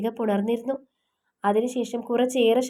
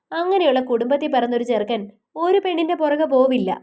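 raised, offended defence of her son; indignant mother; 3 semitones higher than usual. Acted. Mother defending her son's good family, indignant.

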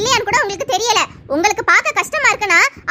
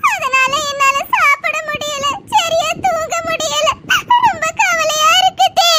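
slow, higher, choked with tears; tearful confession; 4 semitones higher than usual. Acted. Wife tells the doctor why she fasted, voice breaking with tears. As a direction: let the words break as you admit the hurt.

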